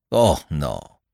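mildly reassuring. A narrator's reading. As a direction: gently wave the worry away.

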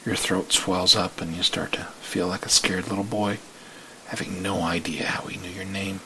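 hushed, breathless storytelling whisper; whispered story narration. Acted. The narrator whispers the listener's fear as the story unfolds. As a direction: whisper the story as if afraid to be heard.

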